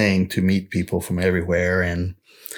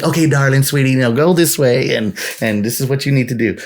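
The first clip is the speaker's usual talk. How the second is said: Texan sweet talk; 5 semitones higher than usual. Retold or imitated. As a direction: sweet-talk the customer like a friendly Texan cashier. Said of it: "because that's how we, they speak".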